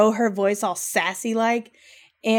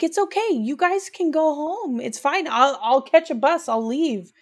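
lightly voiced daughter; 6 semitones higher than usual. Voicing the daughter.

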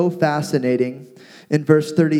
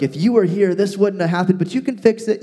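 higher, mock passive-aggressive complaint; 4 semitones higher, faster than usual. Martha complaining to Jesus about her brother, mock passive aggressive. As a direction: imitate a needling complaint, pitched up. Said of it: "passive aggressive".

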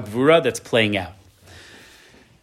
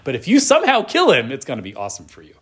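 soldiers urging; faster than usual. Retold or imitated. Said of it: "That's how they're talking".

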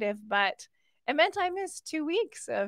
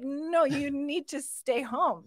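scolding myself; 5 semitones higher, much slower than usual. Retold or imitated. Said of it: "talk myself through".

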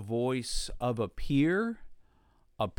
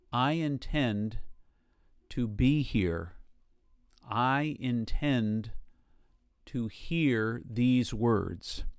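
slow declaration; slower than usual. Shown as a demonstration. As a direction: say it slowly to yourself, calmly. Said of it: "just declare to yourself".

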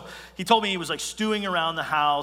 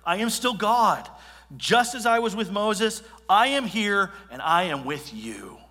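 God speaking to Elijah; 5 semitones higher, 5 dB louder than usual. Acted. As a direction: declare it like God reassuring his prophet.

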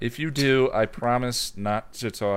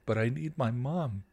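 sobbing; 3 dB quieter than usual. Acted. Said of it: "the teen sobbed".

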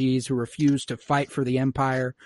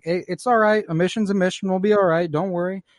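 lightly voiced easygoing squad leader, pitched up; casual mild reassurance; Hunter; 5 semitones higher than usual. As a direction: brush the worry off, a little higher. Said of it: "And Hunter's like".

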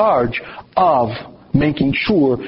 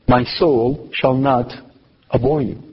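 slow and low, each word weighed; a deliberate slow lowered reread; slow, weighty emphasis; 3 semitones lower than usual. Shown as a demonstration. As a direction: lean on every word, slowly. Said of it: "That's the best they can get".

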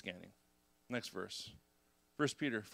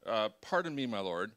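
sarcastic Gideon; 4 semitones lower than usual. Retold or imitated. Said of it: "as if, who's a little nuts".

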